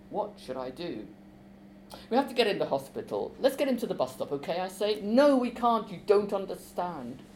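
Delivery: expressive reading of a novel scene with voiced characters; story reading. A narrator's reading. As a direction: read it aloud to a class like a play. Author reads scene aloud.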